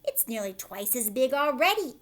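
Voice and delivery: loud astonished shout; excited shout. Acted. Aunt Spiker shouting to Sponge. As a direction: yell at the growing fruit. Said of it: "Aunt Spiker shouted".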